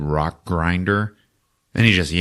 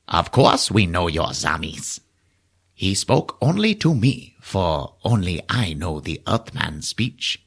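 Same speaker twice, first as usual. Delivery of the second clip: slow, formal alien speech; measured solemn creature voice; 3 dB quieter, slower than usual. Retold or imitated.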